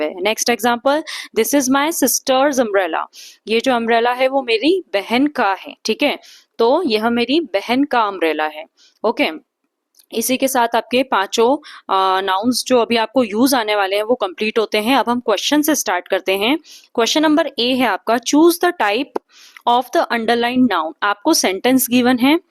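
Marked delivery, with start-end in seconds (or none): 1.4-3.1 very slow, careful read of the example. Acted. Teacher reading an example sentence to students, very slow. 18.1-20.9 very slow, word-by-word dictation voice. Acted. Teacher dictating a definition to the class, very slow and even. Reading the question for notes.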